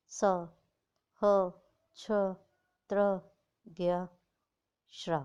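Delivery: क, ख, ग… each said slowly and separately, with a clear अ sound; reciting consonants. Shown as a demonstration. Teacher recites consonants for children to hear the अ, slow and separate. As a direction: recite the व्यंजन one by one, pausing between each. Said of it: "मैं जब बोल रही हूँ तो क के बाद अ की साउंड".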